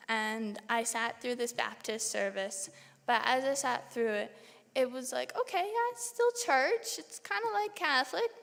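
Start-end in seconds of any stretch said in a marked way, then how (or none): 5.4-8.3 excited. Retold or imitated. Inner reaction at Baptist service.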